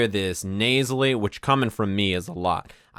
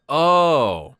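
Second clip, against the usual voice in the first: loud, high sudden oh; surprised realisation; 4 semitones higher, 5 dB louder than usual. Real, not acted. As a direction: catch on all at once.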